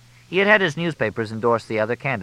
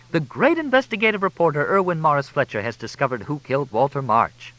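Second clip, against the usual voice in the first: mock grand announcement; 7 semitones higher than usual. A narrator's reading.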